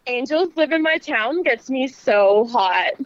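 slow, sultry promo read; sexy voice. Shown as a demonstration. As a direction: draw it out slowly, seductive. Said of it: "Just do one more take for him".

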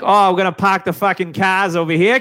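imitating a thick Boston accent; mock Boston parking-lot guy. Mocking Boston speakers, in a thick Boston accent. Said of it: "I don't have the, the thick".

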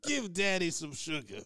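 loud, high, eager come-here call; hammed-up hug-hungry voice. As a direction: call him in for a hug, overexcited. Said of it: "You'd be like".

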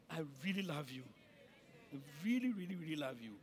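low, soft declaration of affection; tender reassurance. Real, not acted. Pastor assuring members he loves them, softly and sincerely.

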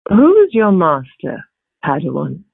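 lightly voiced British villain with swagger, a touch of menace; her character voice. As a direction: taunt the young Jedi coolly, taking your time. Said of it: "do a little bit of her voice for me".

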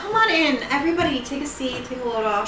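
eerily friendly welcome; calm psychopath. Acted. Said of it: "She's talking like a serial killer".

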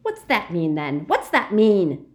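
furious Death Eater yell. Acted. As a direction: explode in anger. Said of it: "yelled the Death Eater, suddenly violent".

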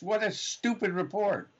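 ordinary delivery

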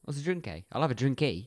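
mock Canadian with a tag "eh" on each phrase; Canadian accent. Shown as a demonstration. Co-host demonstrating the eh on everything, Canadian accent. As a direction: lightly imitate casual Canadian small talk. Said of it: "putting the A on everything".

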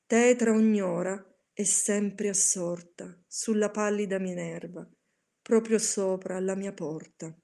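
solemn, theatrical recitation of a dark poem; dramatic poem reading. A narrator's reading. Reciter performing The Raven to listeners, solemn and theatrical. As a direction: read it like a brooding gothic poem. Reads Poe's Raven aloud.

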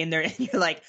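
ordinary talk

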